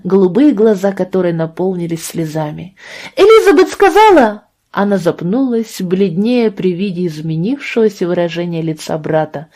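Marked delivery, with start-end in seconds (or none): 3.2-4.4 put-on high, loud childish cry; blurting out. A narrator's reading. Little sister blurting to her brother, high and loud. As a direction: let it burst out like a child.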